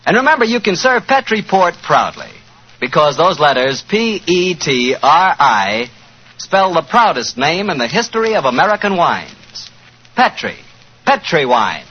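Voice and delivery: smooth announcer selling wine; polished vintage wine commercial voice; radio ad read. Acted. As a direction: sell it like a forties radio pitchman.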